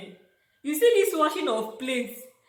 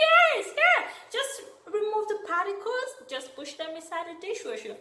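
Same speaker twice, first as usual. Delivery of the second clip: American accent imitation; 10 semitones higher than usual. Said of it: "speaking in her accent".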